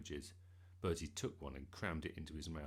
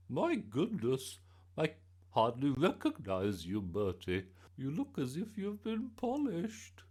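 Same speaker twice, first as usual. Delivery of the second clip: astonished gran; 7 semitones higher, 7 dB louder than usual. A narrator's reading. Gran seeing her neatly dressed grandson, amazed. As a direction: marvel in a high gran voice.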